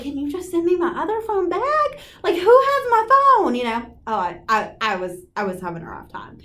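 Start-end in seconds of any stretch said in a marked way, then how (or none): 0.0-3.5 retold exasperated plea. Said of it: "I was like".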